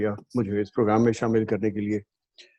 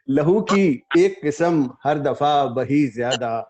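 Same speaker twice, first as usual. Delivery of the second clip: measured ghazal recital with held pauses; mushaira recitation; 3 semitones higher, 6 dB louder, slower than usual. Acted. Poet opens a ghazal before appreciative listeners, mushaira recitation. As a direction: recite the couplet phrase by phrase.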